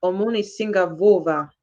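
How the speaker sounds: Manyanga accent. Real, not acted. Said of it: "You sound like Manyanga".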